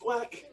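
high, light quack; duck quack. Shown as a demonstration. Coach calling animal sounds for stretch kicks, duck quack. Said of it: "only doing animal sounds".

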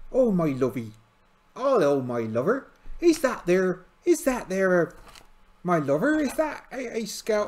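high, loud put-on Liverpool-ish accent; bizarre regional accent. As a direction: play a friendly dolphin trainer in a wobbly accent. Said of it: "a bizarre accent".

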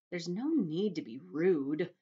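slow, cool reproach; a chilly put-down; coldly. Acted. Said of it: "she said coldly".

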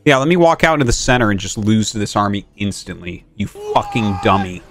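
fast, low exasperated rant; raging gamer. Real, not acted. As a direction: rattle it off annoyed. Ranting at chat advice.

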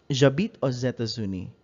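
J'habite aux États-Unis said with "o-zé" liaison; linked x as z. Shown as a demonstration. Teacher repeats the liaison example for learners, clearly. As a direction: run aux into États with a z sound. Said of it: "you pronounce the X as an S sound".

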